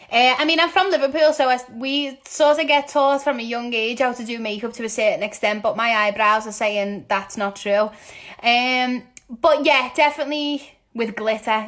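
talking a bit too loud; real over-loud chatting. Real, not acted. Answering a makeup question on Instagram, talking too loud. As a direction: project as if the phone can't hear you. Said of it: "why I'm shouting so loud".

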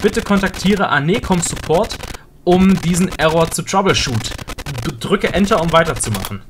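reading out a system error; mild robotic read-out; error message read. Acted. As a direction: announce it like a computer notice. Reads error message aloud.

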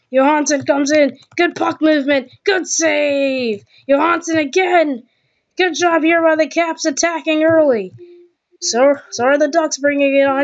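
hockey play-by-play voice; NHL commentator. Pretend. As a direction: call the game like a TV announcer. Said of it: "do my best impression of an N H L commentator".

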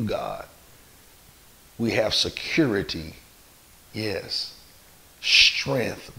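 measured prayer with long pauses; leading prayer. Real, not acted. Leads a prayer.

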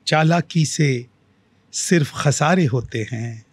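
slow, measured verse with long pauses; unhurried mushaira-style recital; poetry recitation. Acted. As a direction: recite it as a couplet, drawing out the words. Recites own couplet to host.

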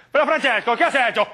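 put-on loud, high Italian-accented outburst; exaggerated Italian accent, pitched high; mock Italian accent. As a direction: exclaim like an Italian film character. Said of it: "hablan más o menos así".

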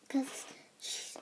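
whispered hush. Real, not acted. Kid hushes so sister in shower won't hear, whispered. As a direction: drop to a whisper mid-word. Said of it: "So I have to be quiet".

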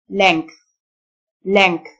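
length said "lenkth", G as K. Shown as a demonstration. Teacher showing learners the letters' sounds, k then th in length. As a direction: say length with a k before the th. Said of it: "الجي تنطق ك".

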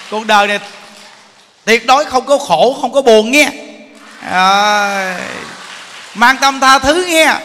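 high, loud and cheerful, laughing through it; joyful laughing blessing; laughing farewell. Real, not acted. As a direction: send everyone off with bright joy.

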